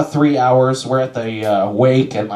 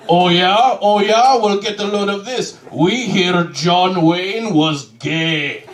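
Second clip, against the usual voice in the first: squabbling believers; 5 semitones higher, slower than usual. Retold or imitated. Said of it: "I should be like".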